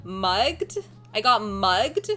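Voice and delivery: put-on questioning Californian girl accent; lightly played Californian American accent; Cali girl accent. Shown as a demonstration. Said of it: "in a Cali girl accent".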